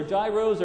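"gyros" said with a soft g, like "jai-rohs"; second guess at "gyros", opening like j; pronunciation query. Retold or imitated. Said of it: "Is it pronounced".

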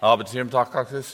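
ordinary talk, nothing marked

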